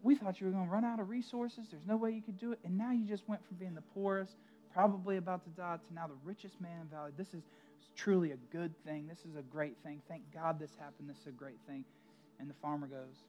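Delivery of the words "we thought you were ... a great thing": the neighbors cheer the farmer's luck; excited neighbors. Acted. Neighbors gushing to the farmer about the horses, excited and higher. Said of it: "and they say".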